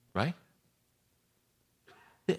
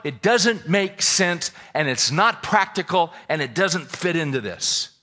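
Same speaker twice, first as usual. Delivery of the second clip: emphatic preaching; 6 semitones higher, 9 dB louder, slower than usual. Real, not acted. Preacher building to a point.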